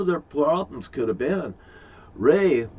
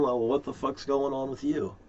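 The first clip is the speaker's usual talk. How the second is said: quieter, muttered under the breath; 7 dB quieter than usual. Retold or imitated. Ranting man mutters what he'd say to them, quietly. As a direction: mutter it like a private grumble.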